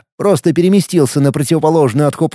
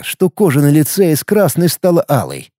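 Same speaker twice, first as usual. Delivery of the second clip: plain reading voice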